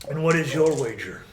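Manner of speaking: measured villain bargaining; lightly voiced menacing negotiator; Strahd. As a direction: weigh the wager with unhurried authority. Game master plays Strahd bargaining.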